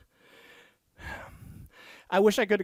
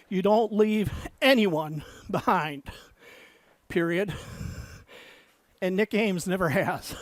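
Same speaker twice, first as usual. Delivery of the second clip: dictating. Acted. Dictating novel text with punctuation.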